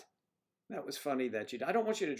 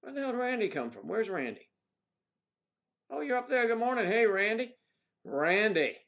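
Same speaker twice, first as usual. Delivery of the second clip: high, loud, excited hail; calling out; 9 semitones higher, 8 dB louder than usual. Real, not acted. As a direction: holler a greeting to someone far away. Excitedly greeting a listener, Randy.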